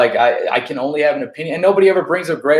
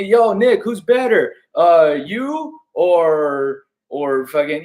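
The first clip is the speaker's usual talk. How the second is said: mock interviewer; 2 semitones higher, much slower than usual. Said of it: "you didn't ask me".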